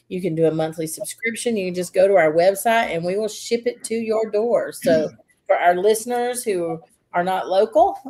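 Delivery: steady sponsor ad read. Acted. Host reading the coffee shop sponsor ad, steady.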